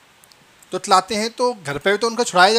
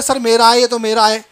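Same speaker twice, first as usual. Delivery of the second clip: louder, higher mock shout of a pupil; imitated child shouting; 4 semitones higher, 6 dB louder than usual. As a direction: call out like a pupil claiming something. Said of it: "दूसरा बच्चा चिल्ला रहा है".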